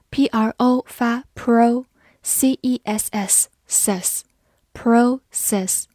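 spell, then sound out "pro", "ses", "process"; teacher sounding out "process" piece by piece; syllable breakdown. Shown as a demonstration.

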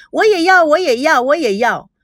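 each repeat starts high and steps down; eager girls clamoring, first one loudest; a hint of excited squabbling; clamoring in different pitches. A narrator's reading. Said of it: "女孩子们又用各种音频吵着说".

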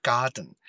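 "Garden" with the den swallowed into the nose; "garden" with a swallowed dn ending; nasal plosion. Shown as a demonstration. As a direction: say "garden" as gar-dn, no vowel before n. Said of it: "好像声音被吞进去了".

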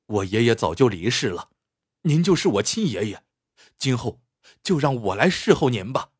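mildly earnest pledge; sincere. Acted. Young man offering to care for the old man, sincere. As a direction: offer it simply and from the heart. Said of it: "真诚地说".

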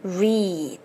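"re" held as a long "ree"; slow model "re" with a lengthened ee; long vowel. Shown as a demonstration. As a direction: stretch the vowel in "re". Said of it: "re长元音".

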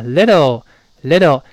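little said lightly with an easy voiced t; soft flapped little. Shown as a demonstration. Teacher repeating the right way, light soft little. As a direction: keep little light, t barely touched. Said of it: "不能用力啊".

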